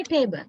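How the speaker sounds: "table" with one steady vowel; Sri Lankan monophthong. Shown as a demonstration. Teacher showing the Sri Lankan pronunciation, monophthong in "table". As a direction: say "table" with an unmoving "eh". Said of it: "we use a monothong".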